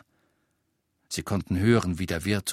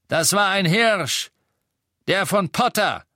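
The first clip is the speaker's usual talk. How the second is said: high, raised, insistent voice; loud accusation; 11 semitones higher, 5 dB louder than usual. A narrator's reading. Death Eater to innkeeper about Potter's Patronus, loud accusation. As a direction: insist loudly on what you saw.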